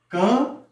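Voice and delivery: CAMPO broken into CAM, pause, PO; split into syllables. Shown as a demonstration. Teacher showing voice impulses, syllable by syllable. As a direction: sound out "campo" one voice impulse at a time. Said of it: "cada impulso de voz que você tem".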